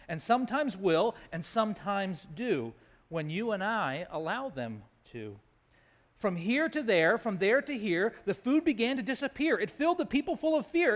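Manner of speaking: lilting rhymed storytelling; children's poem reading. A narrator's reading. Reading the famine verse to children, rhythmic storytelling. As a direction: lean on the rhymes for young listeners.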